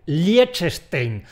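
Liechtenstein slurred as liechestein; sloppy Liechtenstein. Shown as a demonstration. Teacher mocking the lazy version. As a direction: mumble Liechtenstein lazily. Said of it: "la solución vaga y chapucera".

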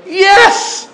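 high, loud jubilant cheer; hammed-up joyful shout of relief; mock relief. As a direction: celebrate like the ordeal is over. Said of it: "and you're like".

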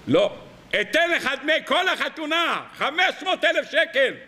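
high, eager pleading; pleading offer. Acted. Bar Kamtza pleading with the host, offering to pay for everything. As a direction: beg to stay, offering everything.

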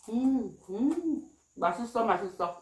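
chewing while talking; words muffled by food; mouth full. Real, not acted. Seen 3: bite at -1, cheeks puffed chewing through words.

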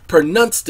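"pronounced" said as pruh-NUNST; "pronounced" with a short u in the second syllable; altered pronunciation. Shown as a demonstration. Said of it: "did you say pronounce or pronounced?".

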